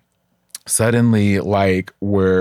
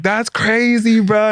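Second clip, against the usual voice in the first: much higher, louder, stunned "bro" voice; friends' disbelief; 13 semitones higher, 3 dB louder, slower than usual. Retold or imitated. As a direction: play the friends gawking at crazy grandma. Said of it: "my lesbian friends would be like".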